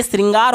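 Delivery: श्रृंगार read as "sringaar", s in place of sh; misspelling read literally. Shown as a demonstration. Teacher reading a faulty option to students, "sringaar" for श्रृंगार. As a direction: open श्रृंगार with a plain SRI. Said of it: "इसको क्या पढ़ेंगे?".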